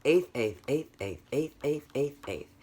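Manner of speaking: each "eighth" short and equally spaced; straight eighth notes. Shown as a demonstration. Teacher demonstrating eighth notes to class, even rhythmic chant. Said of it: "They're eighth notes".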